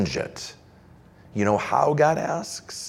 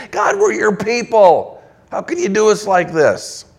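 Israel's protest to God, rising in pitch; complaining people; 3 semitones higher than usual. Retold or imitated. Preacher voicing exiles complaining to God, indignant. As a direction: plead and protest like wronged exiles. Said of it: "God is imagining his people crying out".

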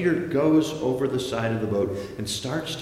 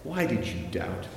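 scornful. Shown as a demonstration. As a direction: say it with measured disdain. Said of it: "Or is he scornful?".

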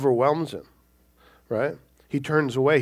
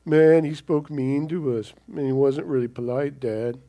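whining to Dad; 5 dB louder than usual. Retold or imitated. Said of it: "they're whining to Dad".

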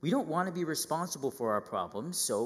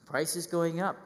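higher, louder mock indignation; griping about prices; 5 semitones higher, 3 dB louder, slower than usual. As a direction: complain about milk at six dollars. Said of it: "sitting at the milk window just like".

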